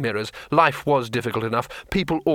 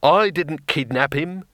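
moaning; 5 semitones higher, slower than usual. Acted. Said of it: "he moaned".

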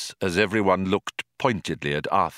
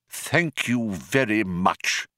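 cold; slower than usual. Acted. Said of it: "said the old man coldly".

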